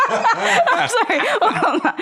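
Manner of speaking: tipsy and giggling. Real, not acted. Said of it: "I'm sorry, I'm tipsy".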